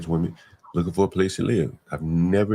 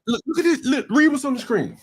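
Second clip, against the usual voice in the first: worked up; 11 semitones higher than usual. Real, not acted. Pointing at a screen, worked up.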